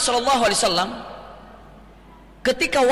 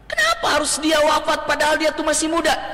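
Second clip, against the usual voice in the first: high-pitched mock wail of protest; demonstrated lament; 7 semitones higher than usual. Shown as a demonstration. Mourner protesting a young person's death, mock lament. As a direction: ask why, as a lamenting mourner. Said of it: "Itu meratap".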